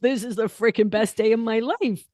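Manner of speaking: a lightly voiced blissed-out dog; happy dog's voice. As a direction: play the dog loving every second. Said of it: "And the dog's like".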